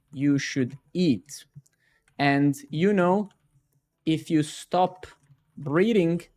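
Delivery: slow, self-important guru wisdom; pompous LinkedIn guru. Shown as a demonstration. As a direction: preach the obvious slowly, as a mock guru. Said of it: "And then he answers".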